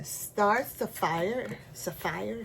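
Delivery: "Sapphire" as suh-FIRE in a Caribbean accent. Real, not acted. Crafter reading out her linen's name, Caribbean accent. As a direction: let the Caribbean accent slip into "Sapphire", first syllable reduced. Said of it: "my Caribbean accent is coming out".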